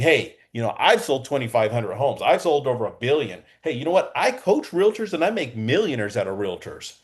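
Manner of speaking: mildly hammed-up sales brag, pitch climbing; bragging. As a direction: brag like a self-important realtor. Mimics a bragging realtor pitch.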